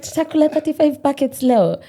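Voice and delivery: giggling through the quote; laughing repeat of mom. Retold or imitated. Retelling mom's words to the interviewer, giggling. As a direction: laugh the line out while retelling. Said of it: "She's like".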